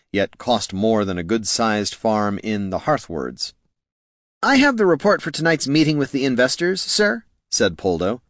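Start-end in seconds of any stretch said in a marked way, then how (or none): 4.4-7.2 high-pitched, eager subordinate voice; deferential junior clerk. Acted. Clerk reporting to his bosses before a meeting, deferential.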